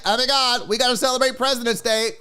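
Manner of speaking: lightly voiced gushing party-goer; a hint of breathless party excitement; excitable celebrator. Mocking excitable holiday celebrators.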